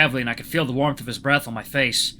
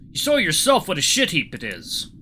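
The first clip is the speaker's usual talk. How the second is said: put-on slightly raised Russian-accented voice; 5 semitones higher, 3 dB louder than usual. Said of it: "see if I can do a Russian accent".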